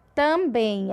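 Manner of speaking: "Também" with weight on final "bem"; stress on bem. Shown as a demonstration. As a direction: lean on the last syllable of "Também". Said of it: "a sílaba tônica é o bem".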